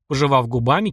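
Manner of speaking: plain reading voice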